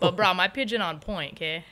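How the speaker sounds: a light touch of Hawaiian Pidgin, casual; playful bit of Hawaiian Pidgin showing she can still speak it. Shown as a demonstration. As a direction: toss off a line in Hawaiian Pidgin, half joking. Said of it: "came home talking pidgin".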